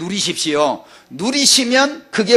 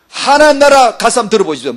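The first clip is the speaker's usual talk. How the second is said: louder, pushing challenge; challenging preacher; 4 semitones higher, 6 dB louder than usual. Acted. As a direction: throw the dare at them.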